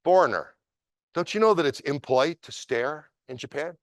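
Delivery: put-on a sneering drunk picking a fight; lightly voiced menacing drunk; drunk man's challenge. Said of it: "the Japanese guy said".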